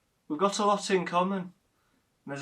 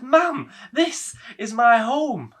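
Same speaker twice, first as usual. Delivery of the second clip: louder and slow, insisting; firm protest; 8 semitones higher, 9 dB louder, slower than usual. Acted. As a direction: plant your feet and say it slowly. Son protests being sent away.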